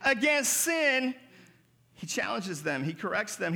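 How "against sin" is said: slow, stretched call of "Hey"; drawn-out shouted hey. Acted. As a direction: call it out like the preacher in the text. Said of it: "And so he says".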